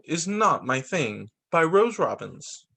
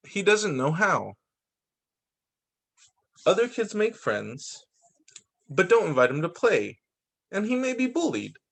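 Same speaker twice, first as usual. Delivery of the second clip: measured read-aloud storytelling; picture-book narration. A narrator's reading. Reader presenting the Asperger child, picture-book narration. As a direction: read it out with careful phrase breaks.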